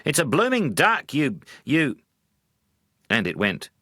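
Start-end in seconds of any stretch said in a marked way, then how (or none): 0.1-2.0 higher and louder, nearly swearing; losing his temper mid-word; exasperated husband. Acted.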